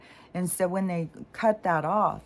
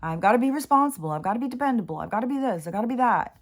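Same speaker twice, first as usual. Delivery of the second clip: lightly voiced stickler listing duties; rigid rule-follower; 5 semitones higher, faster than usual. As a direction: imitate a friend reciting her rules. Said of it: "she's one of those people".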